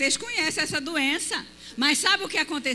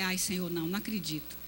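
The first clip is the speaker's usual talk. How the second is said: low, soft despairing sigh; dismayed lament; 7 semitones lower, 7 dB quieter than usual. Retold or imitated. Wife hearing of the transfer, low soft lament. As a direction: groan inwardly to God. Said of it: "Eu falei".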